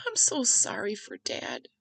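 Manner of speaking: slow, tearful apology, lightly imitated; small, sorrowful retold voice. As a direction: imitate someone starting to cry, drawn out. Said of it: "started to cry and she was like".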